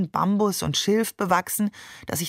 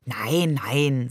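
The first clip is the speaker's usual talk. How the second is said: lower, calming no, no; soothing; 5 semitones lower than usual. Acted. Father calming his wife over his shoulder, soothing. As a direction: settle the worried mother gently. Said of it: "sagte Barbe beschwichtigend".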